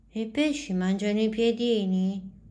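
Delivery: put-on small, high, a bit worried child; a little girl asking with worry. A narrator's reading. To the teacher, a small child asks about fish, high and worried.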